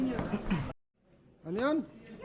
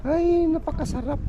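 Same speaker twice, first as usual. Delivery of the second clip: delighted; 10 semitones higher than usual. Real, not acted. Savoring fresh air outdoors.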